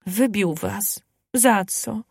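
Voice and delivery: a hushed, worried ask; frightened question. Acted. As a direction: ask in mild alarm. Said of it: "Spytała Marysia z przestrachem".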